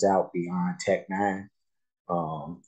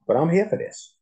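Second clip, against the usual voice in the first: much higher, rising with excitement; hyped; 11 semitones higher, 3 dB louder than usual. Real, not acted. Reactor hyped by the rappers' verse, excited high rise. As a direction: burst out in real delight.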